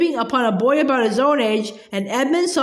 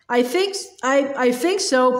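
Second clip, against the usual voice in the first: out of breath. Acted. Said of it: "panted Edmund".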